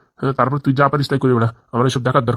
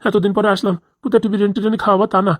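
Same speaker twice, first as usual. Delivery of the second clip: higher-pitched protest at being shortchanged; aggrieved complaint; 4 semitones higher than usual. Acted. Husband home after many days, complaining about his meal. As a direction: complain in a raised, put-out voice.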